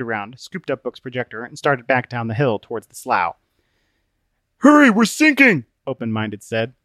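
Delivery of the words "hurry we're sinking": high, loud urgent cry; alarmed call. Acted. Open-Minded sinking in the ooze, alarmed. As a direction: call out in a pitched-up panic.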